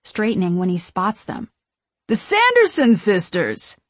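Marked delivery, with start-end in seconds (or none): 2.1-3.8 higher, louder fan squeal; giddy, tipsy exclamation; thrilled recognition. A narrator's reading. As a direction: announce them like idols you just spotted. Drunk fan recognises the sisters.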